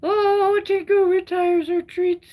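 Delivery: high, loud excited exclamation. Real, not acted. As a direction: blurt it out with delight. Excited reaction about the cat.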